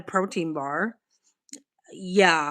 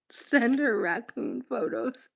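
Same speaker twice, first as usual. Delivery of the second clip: reading it out slowly through a laugh; chuckling at the viewer's suggestion; 3 semitones higher, 4 dB quieter, slower than usual. Real, not acted. Reads the raccoon message while laughing.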